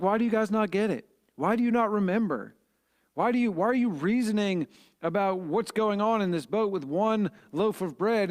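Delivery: a teacher fed up that they still don't get it; exasperated Jesus. Retold or imitated. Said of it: "Jesus was a little exasperated here".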